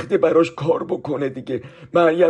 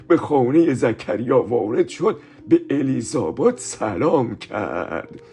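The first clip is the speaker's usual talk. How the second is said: slow, solemn Bible reading; scripture reading; slower than usual. Acted. Teacher reading Luke to the children, slow and solemn. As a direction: read the verse slowly and reverently.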